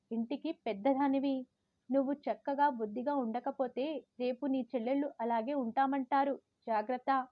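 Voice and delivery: wag the finger like a strict grandmother; grandmother's warning. Retold or imitated. Grandmother warning the eldest girl about her dress, sternly. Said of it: "బామ్మ హెచ్చరికలు జారీ చేశారు".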